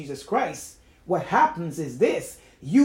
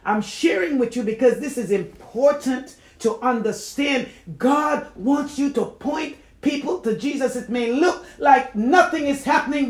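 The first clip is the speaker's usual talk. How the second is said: raised, emphatic pulpit exhortation; earnest preaching; 6 semitones higher, 5 dB louder than usual. Real, not acted. Urging believers to point people to Jesus, earnest preaching. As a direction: press the point on the congregation.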